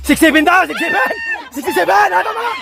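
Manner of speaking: high, urgent number call; excited calling out. Real, not acted. Relaying the number to the player. (pasigaw at sabik)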